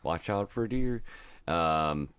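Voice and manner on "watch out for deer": higher, put-on Wisconsin accent; imitated Wisconsin accent; Charlie Barons. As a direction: do the Wisconsin catchphrase in dialect. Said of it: "I'm a big Charlie Barons fan".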